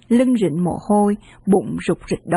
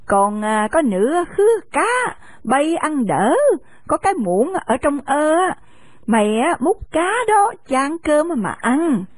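put-on higher, slow old lady instructing kids; a grandma telling the boys to eat; lightly voiced old woman; kindly old woman; 5 semitones higher than usual. Old woman serves fish.

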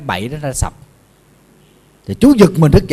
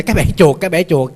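mild mock shout; 3 semitones higher, much faster than usual. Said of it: "hét lên vậy".

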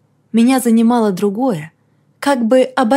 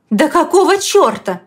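сорвалась; 6 semitones higher than usual. A narrator's reading. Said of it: "не выдержала я".

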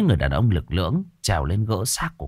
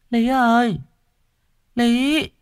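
gentle calling; slower than usual. A narrator's reading. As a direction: call her name gently through the door. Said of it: "nhẹ nhàng cất tiếng gọi".

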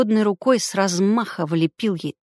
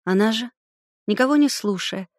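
plain reading voice

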